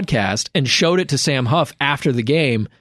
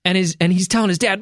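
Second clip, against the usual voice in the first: ordinary talk, nothing marked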